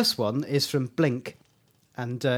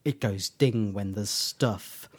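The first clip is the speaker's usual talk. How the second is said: slow, understated quoted line; slow, subdued mock explanation; Doctor fumbling an explanation; 3 semitones lower, 3 dB quieter, slower than usual. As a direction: spell it out slowly and low-key. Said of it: "Doctor can't explain how it works line".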